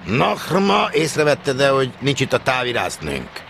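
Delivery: loud, high agitated asking; agitated question. A narrator's reading. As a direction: press the trainee eagerly. Stationmaster questions the trainee. (izgatott, hangos kérdés)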